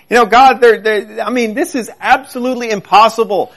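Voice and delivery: high, pressing plea to God; Abraham complaining to God, high and pleading. Acted.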